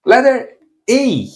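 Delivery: A said as Portuguese open ah. Shown as a demonstration. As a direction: say A long as open ah. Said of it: "First of all".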